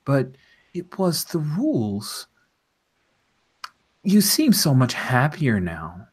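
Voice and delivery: prim apologetic bureaucrat, lightly voiced; polite official voice.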